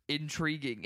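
flat monotone, no acting. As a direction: say it like you've never acted, monotone. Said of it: "the most monotone ... voice".

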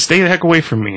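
high, frightened warning; panicked. Retold or imitated. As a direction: back off in fear. Man fleeing Reaper.

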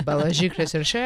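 Biologique Recherche said quickly in a Russian accent. Shown as a demonstration. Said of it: "With my Russian accent is".

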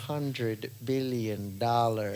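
slow mock villain ransom demand; Doctor Evil impression. Friend doing Doctor Evil for laughs, slow and smug. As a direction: drag it out like a smug movie villain. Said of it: "Donald Trump is just Doctor Evil".

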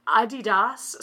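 "Adidas" as ah-dee-DAHS; French-style Adidas. Shown as a demonstration. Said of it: "in a douchebag French, as you would say Adidas".

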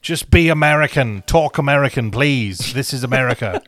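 hammed-up fed-up local griping at Brits; mock fed-up American. A tired American telling a Brit to talk American, mock fed-up. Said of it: "I was like".

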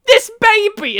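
high, loud shout; shouting woman. Retold or imitated. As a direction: yell it out, pointing at her belly. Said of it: "And then a woman says".

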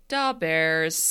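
gruff Chicago Da Bears voice; ghostly Chicago fan voice; Chicago accent. Retold or imitated. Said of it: "You just hear".

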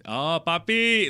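put-on high, drawn-out Dominican accent; hammed-up Dominican exclamation; imitated Dominican accent. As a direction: stretch it out in a playful Dominican accent. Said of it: "When he goes into his".

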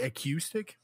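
"acoustic" with a cue sound, questioning; imitating mispronounced "acoustic". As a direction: echo "acoustic" as uh-KYOO-stick. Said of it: "Is that what you just said?".

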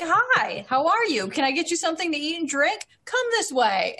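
customer service voice. Acted. Emma ushers the desert strangers in, customer-service sweet. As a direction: greet them like a too-friendly waitress. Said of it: "customer service Emma comes out".

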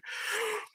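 high-pitched mock scream; brief re-enacted shriek of alarm; imitated scream. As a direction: act out screaming as you flee. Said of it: "So I'm screaming".

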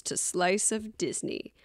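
slow, low spooky take of "Slice of Disney"; drawn-out eerie welcome. Acted. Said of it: "where you hear my spooky voice".

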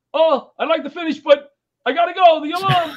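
high and loud, rushing off; loud hurried goodbye to the audience; excited exit. Retold or imitated. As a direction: call it out loudly, already leaving. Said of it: "I looked at the audience and I go".

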